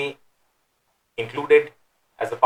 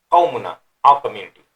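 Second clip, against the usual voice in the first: derogatory tone; 7 dB louder, much faster than usual. Shown as a demonstration. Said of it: "it's in a derogatory tone".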